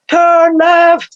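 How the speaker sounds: a wise inner voice giving directions. Retold or imitated. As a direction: call down the instruction from the mountain. Higher self calling down mountain.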